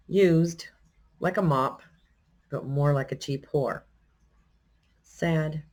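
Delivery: measured recital with long pauses between phrases; poem reading. Acted. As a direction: read the poem aloud, letting each image land. Reads own old poem aloud.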